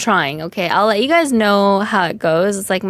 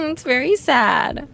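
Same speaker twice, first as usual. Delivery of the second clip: higher, slow laughing lament; 4 semitones higher than usual. Real, not acted. Streamer agrees with chat her suffering entertains, laughing. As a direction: laugh at your own misery.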